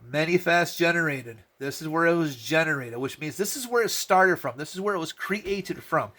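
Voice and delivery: lightly mocking first-grade teacher; preschool read-along. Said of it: "read together like we're in preschool".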